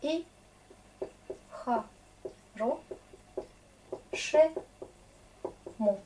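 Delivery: each syllable spoken apart with long gaps. Shown as a demonstration. Teacher spelling out a Russian word syllable by syllable. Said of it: "teacher splits word into syllables".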